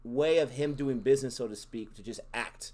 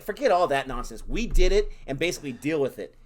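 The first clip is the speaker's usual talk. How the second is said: a touch of mock bravado; 6 dB louder than usual. Voicing brash Guru.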